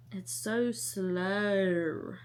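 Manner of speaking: very slow, stretched words; dragged-out complaint. Real, not acted. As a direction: drag every word out to match the slow book. Complains the book drags.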